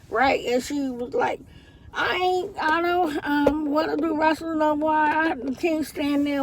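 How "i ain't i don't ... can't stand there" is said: higher, hurt teen voice, lightly acted; imitating upset daughter. Retelling her crying daughter quitting wrestling, mildly tearful. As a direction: voice her tearful complaint without full sobbing. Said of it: "while my daughter was crying".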